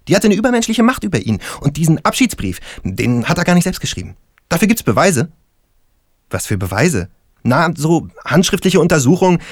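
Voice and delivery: lightly voiced Lennart defending his theory; insistent stoner. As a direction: argue the point eagerly. Lennart continues, voice back up.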